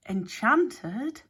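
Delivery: startled echo of "Enchanted?" pushed up at the end; stammered. A narrator's reading. Alex echoing Hex in shock, rising "Enchanted?". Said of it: "stammered Alex".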